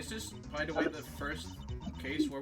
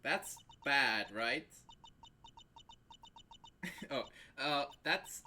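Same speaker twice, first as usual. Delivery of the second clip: put-on valley girl voice; 5 dB louder than usual. Same ditzy girl character.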